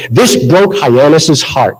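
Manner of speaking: slow, drawn-out Boston delivery of a stage line; deliberate Boston-accented line. Acted. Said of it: "it had my Boston accent".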